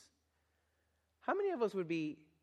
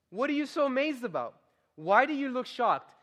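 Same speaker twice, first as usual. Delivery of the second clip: higher, indignant challenge; indignant Peter; 6 semitones higher than usual. Shown as a demonstration. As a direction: Peter scolding the amazed crowd. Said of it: "Is that what he says?".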